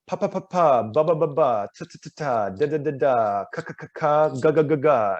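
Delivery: rapid drill from "pa" through "ga", front to back; consonant run. Shown as a demonstration. Coach running the consonant ladder, crisp. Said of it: "So you do that over and over again".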